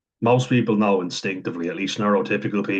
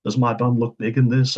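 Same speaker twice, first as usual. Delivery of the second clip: put-on "Does my bum look big in this?" lifted higher and louder, a light girlfriend voice; 4 semitones higher, 4 dB louder than usual. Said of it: "and she says".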